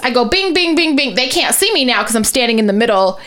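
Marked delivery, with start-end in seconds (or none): 0.2-1.1 imitated doorbell rings. Imitates ringing several doorbells.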